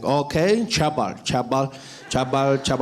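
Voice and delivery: lightly voiced guard mangling a name; confused security guard. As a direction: slowly try out "Chabal" as a misheard name. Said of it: "the security guard came out to the boom".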